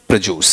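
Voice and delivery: "प्रोड्यूस" as pruh-JOOS, falling low; low-pitched "प्रोड्यूस" with j replacing dy; purified pronunciation. Shown as a demonstration. Teacher repeating the best version, purified pronunciation. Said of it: "ये वाला part सबसे अच्छा".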